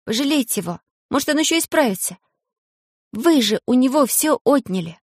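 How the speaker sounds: high, fast pleading cry; Alice pleads for the pygmy. A narrator's reading. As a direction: beg the crowd for mercy. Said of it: "крикнула".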